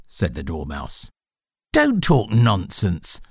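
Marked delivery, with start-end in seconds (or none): 1.7-3.2 slow, firm reply with a touch of boldness; bolder. Acted. Alice standing up to the Dormouse, mildly bold. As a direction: say it firmly, taking your time. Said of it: "said Alice more boldly".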